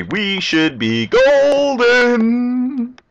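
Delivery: high, slow sing-song cheer; drawn-out triumphant squeal; gleeful. Real, not acted. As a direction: stretch it out like a victory call. Gleeful, high stretched call.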